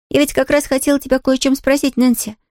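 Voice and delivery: put-on a young girl nervously asking; worried Pollyanna. Pollyanna asks Nancy about her aunt, anxious girlish voice.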